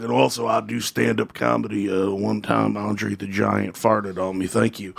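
lightly voiced wrestler, low and slowing; deadpan imitation of a low-voiced sign-off; Jake the Snake. Wrestler wrapping up his Q and A, lightly imitated low voice. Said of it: "He's like".

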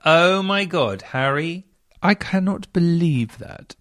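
shocked disbelief. Real, not acted. Host reacts to shocking story.

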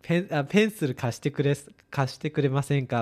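mock-polite foreigner asking to borrow a pencil; halting polite request. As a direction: ask politely, fumbling into Japanese. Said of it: "kinda like that".

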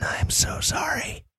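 breathy whispered apology; whispering. Real, not acted. Apology for audio trouble.

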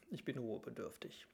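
whispered, worn out and done; weary whisper. Acted. Ailing grand duke sends his brother away, whispering wearily. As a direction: breathe it out like a tired, sick man.

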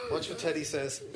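very high toy voice; talking plush toy. Acted. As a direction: speak as the teddy bear. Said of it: "not the Teddy voice".

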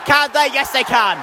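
high question, then the triumphant answer; excited try call. Real, not acted. Commentator sees Exeter get a try, excited. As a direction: lift the question high, then confirm the score.

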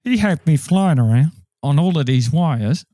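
British-accented celebrity impression, conversational; put-on London actor voice; Michael Caine. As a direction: tell it as a chatty British film star. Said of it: "Michael Caine, doing your famous Nicolas Cage impression".

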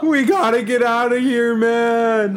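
loud, high panicked shout; urgent shout. Acted. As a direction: yell to get everyone out. Escaping the sinking ship.

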